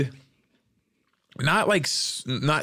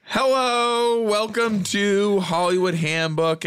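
announcer intro; 8 semitones higher, slower than usual. Acted. Show intro, announcer style.

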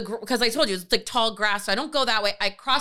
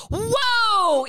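high, drawn-out whoa; stunned exclamation, replayed; shock; 9 semitones higher, 3 dB louder than usual. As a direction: let it swoop up high in acted shock. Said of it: "but I'm in shock".

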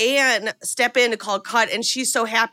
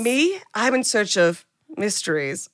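a light put-on French accent, hushed and mysterious; a touch of French accent, dreamy and mysterious. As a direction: play the enigmatic Frenchwoman with a hint of a French accent. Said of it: "This is exactly what I think France is".

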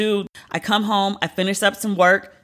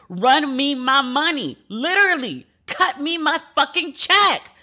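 livid demand; 8 semitones higher than usual. Real, not acted. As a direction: spit each word out at the bank. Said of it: "Can you hear that I'm livid?".

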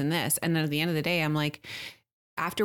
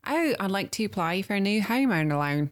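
comic Australian skit voice; Australian accent; 2 semitones higher than usual. Retold or imitated. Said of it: "does it in Australian".

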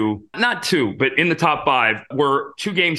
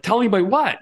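surprised; 8 semitones higher, faster than usual. Retold or imitated. Told to keep news secret.

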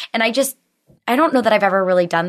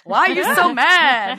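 put-on child voice; 9 semitones higher than usual. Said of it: "even Sailor was like".

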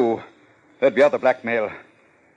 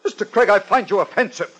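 outraged; 11 semitones higher than usual. Acted. Willoughby outraged at calm detective.

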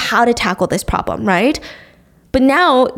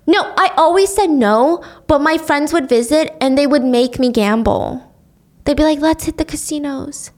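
put-on whiny man child; 3 semitones higher than usual. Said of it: "starts whining like a child".

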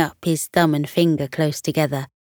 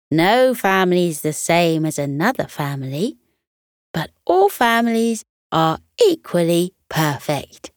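gentle wisdom. Acted. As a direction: pass on a mother's wisdom kindly. Coco shares mum's wise words.

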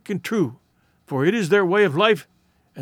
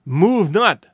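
pleading; 5 dB louder than usual. A narrator's reading. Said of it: "Tyree pleaded".

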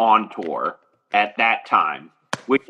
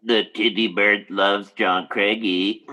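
slow, creepy hunchback servant voice; Torgo voice; 3 semitones lower than usual. Acted. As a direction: drag it out like a creepy manservant. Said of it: "you sound like the guy from Manos".

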